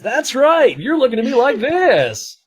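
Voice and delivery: high, loud hammed-up announcer; radio announcer voice. Streamer hamming up his old radio voice, loud announcer. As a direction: boom it like a radio host. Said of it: "the whole radio voice".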